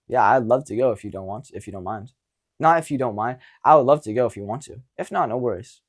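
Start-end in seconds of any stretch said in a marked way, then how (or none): 2.6-5.8 easygoing, unbothered ask; relaxed and chill. Shown as a demonstration. Asking her out on a date, relaxed and chill. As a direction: toss it off like it doesn't matter. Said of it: "See how relaxed and chill you are about it".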